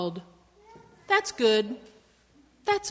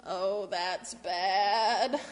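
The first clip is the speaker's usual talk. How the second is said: mock gloomy; 4 semitones lower, 4 dB quieter, much slower than usual. Refrain, gloomy take.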